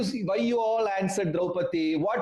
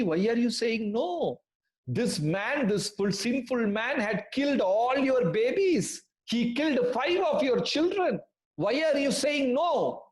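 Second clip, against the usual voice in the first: raised, indignant questioning; mild angry demand; 5 semitones higher than usual. Acted. Krishna angrily asks Draupadi why she spares the killer. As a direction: press her, outraged that she spares him. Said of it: "Krishna became very angry".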